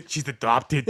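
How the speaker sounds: slow, laughing Boston twang; Boston accent. Pretend. Admitting the accent slipped Boston, laughing. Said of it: "It went a bit Boston".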